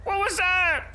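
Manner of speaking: high, stretched-out yell of disbelief; shocked yelling. Pretend. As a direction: cry out in high-pitched shock. Reacting to the crash.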